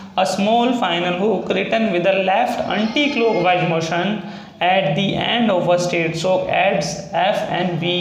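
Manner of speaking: slow dictation reading of the rule. Shown as a demonstration. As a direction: read the rule out word by word. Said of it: "इसकी ए point में यही बताया गया है". (धीमी आवाज़ में नियम पढ़ना)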